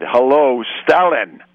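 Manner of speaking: hammed-up pub bully throwing down the gauntlet; menacing challenge. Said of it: "in a voice that quietened the whole room".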